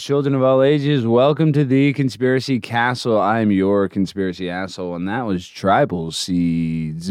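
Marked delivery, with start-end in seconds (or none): 0.0-3.2 showman welcome, slightly louder; announcer intro. Acted. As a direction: open the show like a ringmaster. Show host opening.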